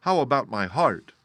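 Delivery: Tin Woodman. A narrator's reading. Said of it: "asked the Tin Woodman".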